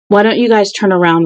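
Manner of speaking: muffled, as if inside a helmet. Acted. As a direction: speak muffled through a face shield. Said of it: "His voice was muffled by the helmet".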